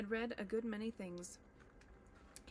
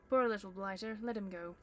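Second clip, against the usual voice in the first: louder troll plea; 8 dB louder than usual. Acted. William louder.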